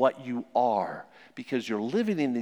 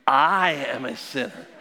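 mildly rousing declaration, punched opening word; enthusiastic; 3 semitones lower, 3 dB louder than usual. Shown as a demonstration. Preacher leading congregation to confess out loud, mildly enthusiastic. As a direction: lead the group in saying it with some enthusiasm. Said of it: "let's say it with some enthusiasm".

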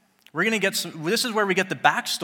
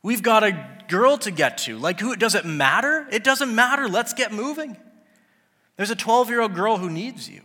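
impatient Peter; 4 semitones higher, 4 dB louder than usual. Acted. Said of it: "He's like".

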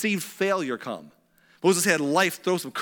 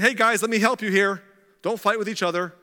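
put-on eager young helper, raised voice; mock-heroic keenness; young Moses; 4 semitones higher, 4 dB louder than usual. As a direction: jump in loudly to break it up. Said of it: "Moses, as a younger man".

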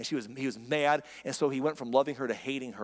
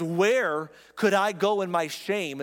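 passionate plea; 3 semitones higher, 4 dB louder, slower than usual. Retold or imitated. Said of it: "She makes a passionate plea".

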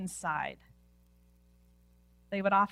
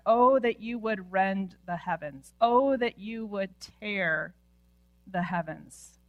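louder, pleading cry up to heaven; crying out to God; 6 dB louder than usual. Acted. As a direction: call out to God. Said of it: "he cries out to God".

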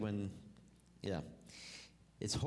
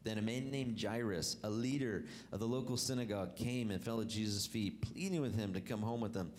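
scripture reading; 2 semitones lower than usual. Acted. Reads scripture aloud.

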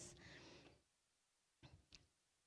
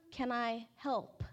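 hushed timid offer; 6 dB quieter, slower than usual. Retold or imitated. Retelling her timid volunteer offer.

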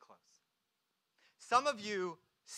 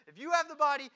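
louder, higher acted demand; insistent demand; 7 semitones higher, 7 dB louder, much faster than usual. Mary speaks to the supposed gardener, insistent. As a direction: press the gardener urgently.

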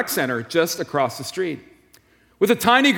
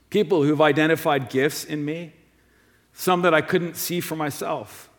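ordinary delivery

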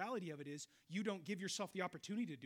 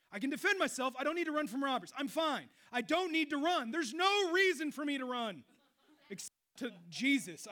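louder, higher preaching build; 7 semitones higher, 9 dB louder than usual. Acted. Pastor preaching to his congregation, rising fervor. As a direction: drive each line home from the pulpit.

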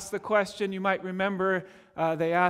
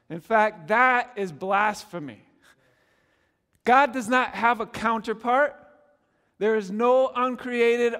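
louder, emphatic preaching; firm, insistent sermon delivery; 3 semitones higher, 4 dB louder than usual. Acted. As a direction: press the point home from the pulpit. Pastor drives home doctrinal point.

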